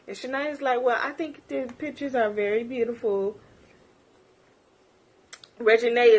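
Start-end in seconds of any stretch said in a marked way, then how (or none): 0.8-3.4 soft, prim, put-on voice; smooth it over sweetly; mock polite voice. Shania trying to calm things, mock polite voice.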